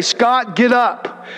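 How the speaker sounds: lightly voiced God, steady and gentle. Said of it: "heard God's voice say".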